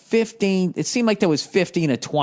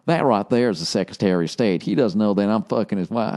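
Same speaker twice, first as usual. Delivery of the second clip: lightly voiced Kevin Spacey aside; 3 semitones lower than usual. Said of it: "him fucking turning to me, talking to me".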